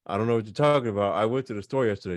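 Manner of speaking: fast, firm, insisting I did go; insistent emphasis. Shown as a demonstration. Teacher showing how to insist you went to the store. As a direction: rattle it off, fed up with being doubted. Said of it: "If I say it like this".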